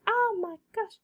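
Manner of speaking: high mock gasp of a worried mum; mum's gasp. Mum despairing at her again, high mock gasp. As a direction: sigh it out like a despairing mother. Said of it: "she's like".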